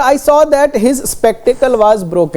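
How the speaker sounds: very slow, word by word; teacher slowly reading the exercise sentence. Shown as a demonstration. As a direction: dictate the board sentence. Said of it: "लिखा".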